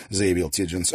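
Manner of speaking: ordinary delivery, nothing marked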